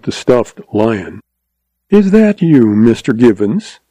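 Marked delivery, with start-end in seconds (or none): 1.9-3.8 saccharine contralto. Acted. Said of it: "in her deliberate saccharine contralto".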